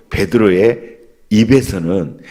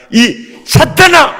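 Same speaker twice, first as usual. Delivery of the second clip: much higher, louder, slow rebuking shout; loud rebuke; 6 dB louder, slower than usual. Shown as a demonstration. Preacher modelling Jesus's rebuke for the congregation, slow shouted rebuke. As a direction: hurl it out like Jesus rebuking Peter. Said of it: "나처럼 따라서 해봐".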